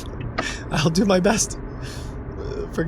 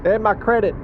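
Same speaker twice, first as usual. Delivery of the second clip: higher, hurried caller voice; flustered caller voice; 8 semitones higher than usual. Pretend. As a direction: play a frazzled driver on the phone.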